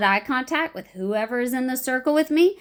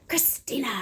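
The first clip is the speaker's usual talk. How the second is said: name with a pose; 4 semitones higher, 4 dB quieter than usual. Shown as a demonstration. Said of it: "So I usually will go".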